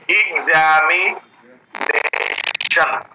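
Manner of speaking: एग्जामिनेशन very slowly, each syllable held and separate. Shown as a demonstration. Teacher asking learners to check the sounds, slowly syllable by syllable. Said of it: "slowly आप try करो".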